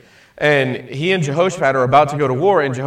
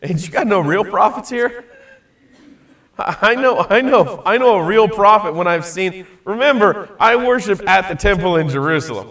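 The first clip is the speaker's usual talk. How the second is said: hick king; 4 semitones higher, 5 dB louder than usual. Acted. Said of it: "what was Jehoshaphat's response".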